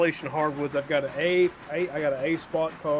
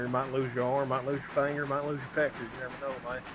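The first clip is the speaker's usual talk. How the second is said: Texas drawl; 2 semitones lower, 4 dB louder than usual. Acted. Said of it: "He just sound like he's from Texas".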